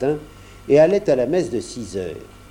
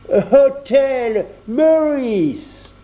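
put-on very slow, drawn-out English accent, higher and louder; stiff, solemn Englishman in a thick English accent; 10 semitones higher, 4 dB louder, much slower than usual. A narrator's reading. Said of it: "prit un accent anglais très prononcé et très solennel". (accent anglais très prononcé et solennel, très lent)

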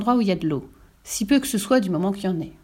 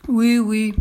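puzzled, slightly louder assent; mildly baffled king; perplexed; 2 semitones higher, 4 dB louder than usual. A narrator's reading. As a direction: agree while clearly at a loss. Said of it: "dit le roi très perplexe".

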